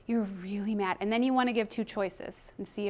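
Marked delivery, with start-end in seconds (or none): 0.1-1.0 calm corrective language. Shown as a demonstration. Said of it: "give her the corrective language".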